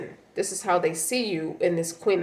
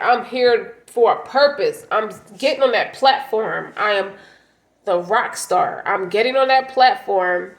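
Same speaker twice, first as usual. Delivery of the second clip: louder, proud rallying cry; fired-up declaration; 4 dB louder than usual. Acted. Reader voicing Capricorn stepping into purpose, louder and proud. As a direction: proclaim it like you're stepping onstage.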